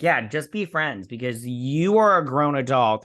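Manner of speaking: drawn-out, pointed agreement; slow "just be friends", pressing the point; pointed retort. Acted. Viewer scolding a grown man to stay just friends, pointed retort. Her sarcastic retort to the character.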